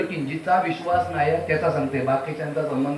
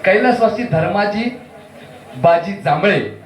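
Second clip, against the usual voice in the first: loud formal stage announcement; announcer style; 3 dB louder than usual. Acted. Compere announcing a memorial prize, formal loud announcement. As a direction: read the dedication like a compere.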